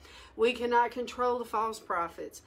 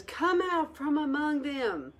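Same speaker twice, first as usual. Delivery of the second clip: mild preaching quote; 3 semitones higher, 3 dB louder than usual. Retold or imitated. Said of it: "Nehemiah says".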